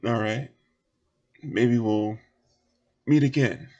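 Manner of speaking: guarded offer in a light Southern voice; lightly voiced local. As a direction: size them up, leave the door open. Game master voices Southern character.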